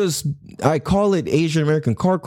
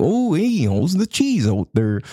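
put-on Wisconsin-sounding accent. Comedian imitating how people from different states talk, imitating someone from Wisconsin. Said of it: "Or if you're from Wisconsin, you're like".

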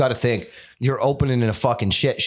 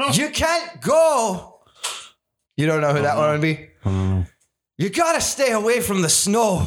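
Irish-tinged put-on voice, go stretched and swooping; 8 semitones higher than usual. Showing off your impression to someone who has to guess who it is, do a Jon Snow impression. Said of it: "That's my Jon Snow impression".

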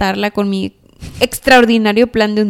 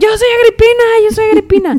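put-on shrill, frantic, hysterical screaming, very high; 12 semitones higher, 4 dB louder than usual. Retelling how a panicking friend who could not swim started shouting: imitating someone shouting hysterically. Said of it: "empezó a gritar".

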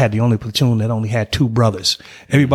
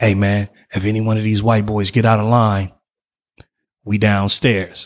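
stage whisper, loud. Retelling what a passing soldier said in formation: imitating a loud whisper. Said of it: "he whispered, but he whispered loudly".

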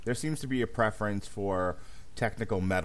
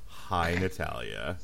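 sultry, sexy, seductive flirting voice; 3 semitones lower than usual. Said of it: "in my sexy voice".

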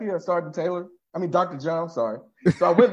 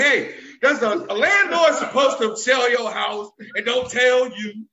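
mock yelling, each word drawn out, pointed and confrontational; 3 semitones higher than usual. Retelling a loud complaint to the office: imitating own yelling. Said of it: "I didn't use my inside voice".

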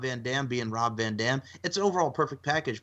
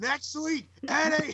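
mock yelling, pitched higher. Retelling a repeated challenge someone kept shouting: imitating someone yelling. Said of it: "he just yells out".

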